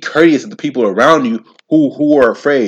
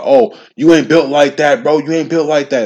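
mock yell; 4 semitones higher, 3 dB louder than usual. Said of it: "they were yelling at the police, something like".

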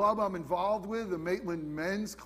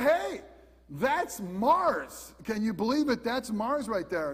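excited discovery; 2 semitones higher, slower than usual. Retold or imitated. Retelling spotting Mars at banquet.

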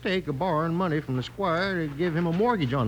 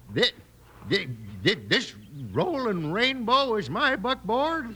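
shocked disbelief; 4 semitones higher, slower than usual. Acted. Owner shocked at painted wagon.

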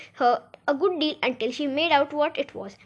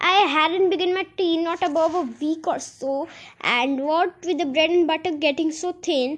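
trembling voice; 3 semitones higher than usual. Acted. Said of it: "in a trembling voice".

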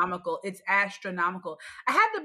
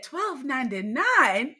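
slow, higher-pitched price shock; out-loud disbelief; 4 semitones higher, 4 dB louder, slower than usual. Retold or imitated. Shopper reading a sponge price out loud, slow disbelief. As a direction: read the price out, scandalized. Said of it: "I had to out loud say".

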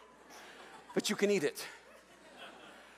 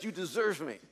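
smug tamale; 6 semitones lower, 5 dB quieter than usual. Pretend. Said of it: "It's a tamale that says".

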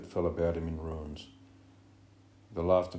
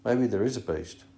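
hesitant; 5 semitones higher, 7 dB louder than usual. A narrator's reading. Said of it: "he said hesitantly".

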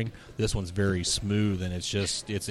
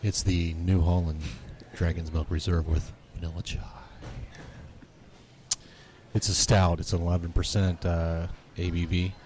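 sexy voice; 2 semitones lower than usual. Pretend. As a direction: read the beer label with a hint of playful seduction. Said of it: "read it in your sexy voice".

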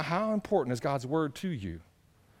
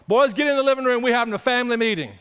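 put-on calling the boys; 5 semitones higher, 6 dB louder, faster than usual. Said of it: "They come in there".

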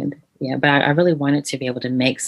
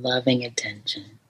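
whisper; 6 dB quieter than usual. Shown as a demonstration. Closing words of the meditation.

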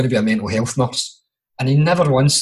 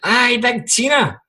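a slow, higher Scottish quote of Susie; quoting Susie; 11 semitones higher, slower than usual. Retold or imitated. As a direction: drawl it out, higher, like Susie greeting an old pal. Quoting Susie about his auntie.

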